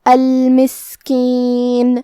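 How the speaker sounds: slow chant of المسکین with a weak, airy hiss on the S; hams on seen. Shown as a demonstration. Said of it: "حرف کو ہمسے سے پڑھیں گے". (المسکین میں سین ہمس کے ساتھ)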